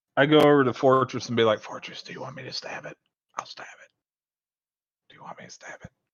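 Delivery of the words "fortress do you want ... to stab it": very quiet, hushed whisper. Asking fortress in character whether to stab the creature: whispering. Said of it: "I actually can't hear you whispering".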